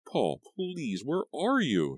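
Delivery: high pleading call into the room; desperate call. A narrator's reading. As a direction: call for the unseen ghost. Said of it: "she called".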